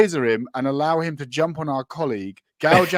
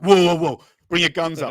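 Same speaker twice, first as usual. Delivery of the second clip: louder, panicky warning call; mock cop alarm; 6 dB louder than usual. Cops reacting to the chained killer moving, mock panicky shout. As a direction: shout it like jumpy police. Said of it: "and they're like".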